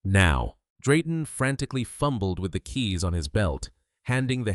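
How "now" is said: commanding. Acted. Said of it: "Beckett ordered".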